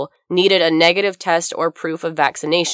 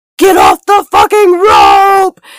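very slow, drawn-out, swooping scream at full volume; 11 dB louder than usual. Retelling a guy coming up behind you at a packed festival set, imitating him screaming. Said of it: "screaming at the top of his lungs".

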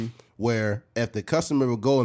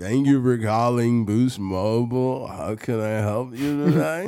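put-on slurred, drunk-sounding voice. Retelling how a coworker answered calls, imitating his drunk-sounding voice. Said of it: "That was his regular voice?".

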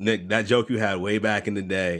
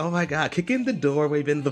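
put-on woman's voice, higher pitched; 6 semitones higher than usual. Imitating basic white women listening to a rapper: put-on white woman voice. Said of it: "they say it gangster in their white woman voice".

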